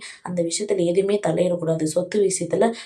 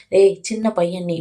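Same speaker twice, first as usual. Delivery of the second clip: louder, slow telling-off; retold rebuke, louder and drawn out; mild scolding; 7 dB louder, slower than usual. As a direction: put a youngster in their place, loudly. Acted grandmother scolds grandson.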